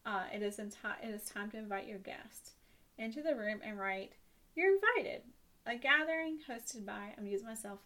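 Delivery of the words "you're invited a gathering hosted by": reading aloud. Acted. Reading the spooky invitation aloud.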